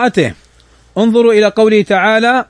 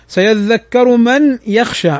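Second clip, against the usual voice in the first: Quran recitation; 2 semitones higher, slower than usual. Shown as a demonstration.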